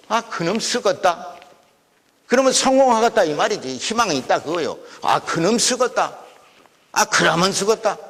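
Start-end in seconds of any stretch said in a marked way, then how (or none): 0.1-1.4 slow Jeolla drawl; Jeolla dialect. Shown as a demonstration. Lecturer demonstrating local praise of a promising fellow, Jeolla dialect. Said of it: "전라도 토속사투리로". 5.0-8.0 local Jeolla lilt of approval; Jeolla dialect. Shown as a demonstration. Lecturer repeating praise of a promising fellow, Jeolla dialect. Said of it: "전라도 토속사투리로".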